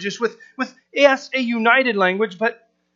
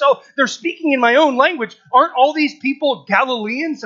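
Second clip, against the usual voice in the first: mildly astonished crowd voice, pitched a bit higher; surprised listeners; 4 semitones higher than usual. Acted. People hearing their own language, mildly surprised. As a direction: act out mild surprise. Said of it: "it surprises people who hear this".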